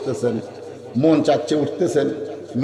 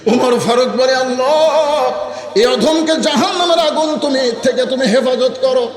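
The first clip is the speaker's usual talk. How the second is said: sermon storytelling. A narrator's reading. Preacher telling Omar's story to the crowd, melodic sermon storytelling.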